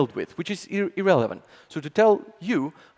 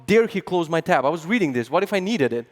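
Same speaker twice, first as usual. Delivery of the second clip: retold outrage, a bit louder; mock outrage; 2 semitones higher, 3 dB louder than usual. Colleague retells his boss closing his tab, mock outrage. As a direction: play up the indignation, half-joking. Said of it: "And I was pretty mad".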